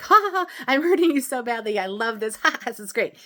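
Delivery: high, loud cackling gloat; mock evil laugh. Explaining self-love, she mimics a cruel ex's loud mocking laugh. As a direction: ham up a cruel person laughing at someone's pain.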